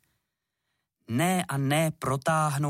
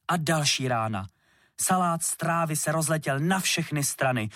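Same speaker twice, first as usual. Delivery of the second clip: usual speaking voice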